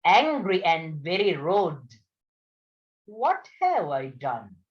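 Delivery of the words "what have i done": stammered. A narrator's reading. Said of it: "the woman stammered".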